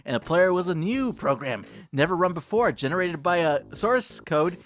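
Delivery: gentle, solemn recital; tender poem reading. A narrator's reading. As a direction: tell a newborn its own story. Reads poem aloud dramatically.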